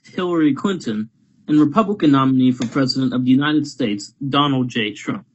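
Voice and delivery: formal TV moderator announcement; debate moderator. Acted. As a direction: introduce it like a televised debate host. Reads debate moderator introduction.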